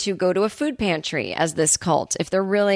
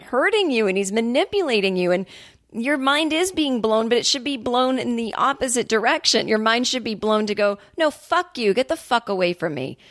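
worked-up, higher-pitched rant without full volume; retold screaming; 5 semitones higher than usual. Viewer yelling at the TV to a manipulated woman, retold screaming. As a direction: plead indignantly, pitch raised, as a mild mock scream. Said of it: "I'm screaming at the T V".

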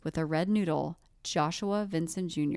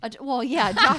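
laughing loud and high; loud laughter; 6 semitones higher, 10 dB louder than usual. Real, not acted. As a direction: crack up laughing. Both laughing loudly.

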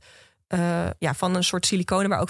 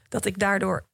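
clearing a dry throat; croaky, needs a sip of water. Real, not acted. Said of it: "ehm, sorry, even een slokje water".

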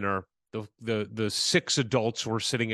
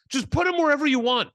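mock polite; 13 semitones higher, 6 dB louder, faster than usual. New woman quoted.

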